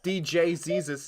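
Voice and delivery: high, slow mock DJ announcement; club DJ voice. Jesus as DJ naming himself, hammed-up hype. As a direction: draw the name out like a DJ. Repeats the joke DJ voice.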